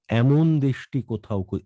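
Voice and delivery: এমন opened as "æmon"; teacher's model æ-sound in এমন; corrected vowel. Shown as a demonstration. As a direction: say এমন with an open "æ", stressed. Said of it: "এমন না".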